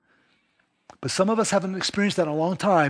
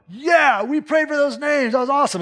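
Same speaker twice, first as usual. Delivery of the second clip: self-congratulating; 9 semitones higher, 3 dB louder than usual. Retold or imitated. Imitating self-focused praise.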